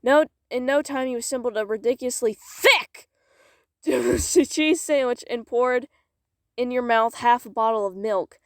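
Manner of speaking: measured, expressive storytelling; story narration. Acted. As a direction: read it aloud like a dramatic tale. Reads story aloud.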